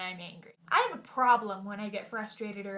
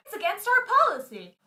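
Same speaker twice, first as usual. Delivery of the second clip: higher, louder, prim officialese; stiff clerk; 9 semitones higher, 7 dB louder than usual. Retold or imitated. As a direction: recite the rule coldly. Quarrel with DMV clerk.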